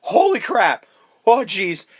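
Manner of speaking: high, loud mock agony; Stu in pain. Host as freshly stabbed killer, pained high yelps. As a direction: cry out drawn-out, as if just stabbed. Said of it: "he fucking stabs Stu".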